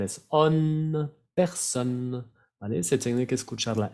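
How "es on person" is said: person, the N sounded, not nasal; on with clear N. Shown as a demonstration. Teacher showing the N is heard in person. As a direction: say person with an audible N at the end. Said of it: "no es nada un sonido nasal".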